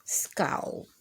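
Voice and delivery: a soft whispered name. Acted. Reading to kids, narrator whispers the grumpy one's name. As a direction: breathe the name like a secret.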